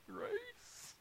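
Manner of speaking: voz muy aguda y tímida al decir Grace; high sheepish answer. Retold or imitated. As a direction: squeak the word out high. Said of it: "I was like".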